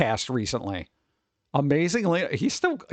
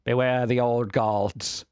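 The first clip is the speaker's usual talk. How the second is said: slow, low doom-laden intoning; ominous cult warning; 4 semitones lower, slower than usual. Pretend. Lovecraftian holiday joke, slow ominous warning. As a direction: warn of the old gods like a cultist.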